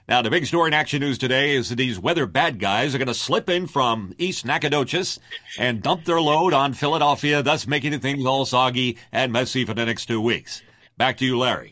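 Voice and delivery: lightly voiced good old boy forecast; Jim O'Brien weatherman. Recalling the TV weatherman's forecast, mildly folksy and loud. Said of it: "when he'd do the weather, he'd say".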